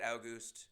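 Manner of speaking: August said as OW-gust, like cow; August with an OW up front. Shown as a demonstration. Urging everyone to say August, OW-gust. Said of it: "I think we should all just say it".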